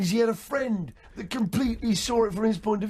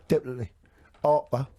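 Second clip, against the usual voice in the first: ancient Cockney. Retold or imitated. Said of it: "that rare brand of Cockney, which I call ancient Cockney".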